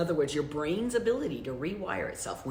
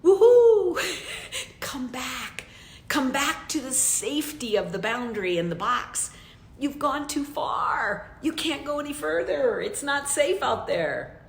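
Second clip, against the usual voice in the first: voice of your limit; 5 semitones higher than usual. Acted. The limit coaxing a listener back into the box, lightly voiced. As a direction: sing out to them like a siren calling them back. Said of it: "Your limit is saying".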